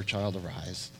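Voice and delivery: low, soft call to wake; gentle command. Retold or imitated. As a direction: call her up tenderly. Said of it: "He speaks to her".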